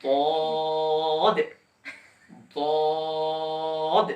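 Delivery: বদ heavy, side of the tongue on the molars; Arabic letter daad. Shown as a demonstration. Teacher showing বদ from the tongue edge. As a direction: say বদ thick with a firm pushed final stop. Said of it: "এভাবে লাগাবেন".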